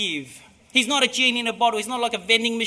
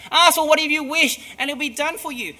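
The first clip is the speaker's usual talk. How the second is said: excited emphasis; 6 semitones higher, 7 dB louder, faster than usual. Shown as a demonstration. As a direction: repeat the promise louder and higher, with wonder. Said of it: "That's amazing".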